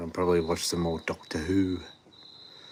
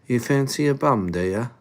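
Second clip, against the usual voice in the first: higher, pushed mock British accent; Pommy accent; 5 semitones higher, 3 dB louder than usual. Shown as a demonstration. Streamer retrying to sound Pommy enough, exaggerated British accent. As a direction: lay the Pommy accent on thicker. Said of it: "that wasn't Pommy enough".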